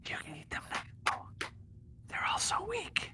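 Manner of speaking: eerie unvoiced whisper. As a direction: hiss it like a voice in the head. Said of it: "It says".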